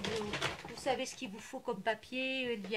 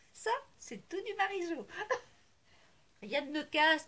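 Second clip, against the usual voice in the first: laughing it off; 7 semitones higher than usual. Real, not acted. Laughing after dropping things.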